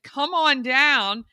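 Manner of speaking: slow, drawn-out "Come on down"; game show invite. Retold or imitated. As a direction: call it like a game show host. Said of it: "I said".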